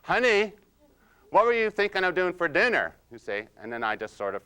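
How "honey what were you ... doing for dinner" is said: higher, louder sweet-but-pointed wife; wife raising her voice. Retold or imitated. Wife pushing husband about dinner, raised sweet voice. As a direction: press him for an answer, sugary. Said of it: "they raise their voice".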